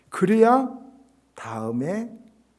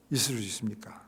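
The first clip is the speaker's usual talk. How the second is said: whispered tail; 4 semitones lower, 6 dB quieter than usual. Acted. End of pastor's protest.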